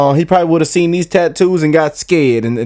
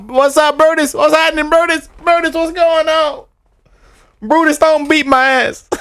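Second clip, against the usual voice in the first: playful high greeting; 12 semitones higher than usual. Pretend. Greeting the snake Brutus playfully.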